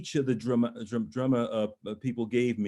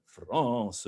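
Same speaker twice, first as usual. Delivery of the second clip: "France" with a long, drawn-out vowel; lingering FRANCE. Shown as a demonstration. Coach shows the long note, lingering on "France". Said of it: "you can play a little bit".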